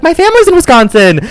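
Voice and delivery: very high, hammed-up squeal of recognition; mock squealing excitement. Bar stranger hearing someone is from Wisconsin, mock squealing excitement. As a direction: imitate an overexcited fan, voice shooting way up.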